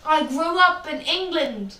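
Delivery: shouting back that of course she speaks English; indignant outburst. Retold or imitated. She tells Mike off in a loud, offended outburst. Enda snaps at a patronizing remark.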